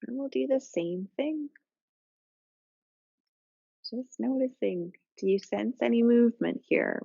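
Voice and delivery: calm, even yoga-teacher voice with long pauses; settled, level meditation cueing; guided relaxation. Real, not acted. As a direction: gently guide them into their breath, unhurried. Leads breathing relaxation.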